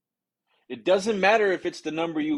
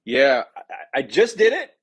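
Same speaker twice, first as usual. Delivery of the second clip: unimpressed stalling; 3 dB louder, slower than usual. Shown as a demonstration. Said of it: "and you wanna go".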